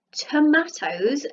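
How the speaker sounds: slow sounded-out tomatoes; slow blend. Shown as a demonstration. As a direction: stretch tomatoes out slowly. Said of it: "sounding out the word".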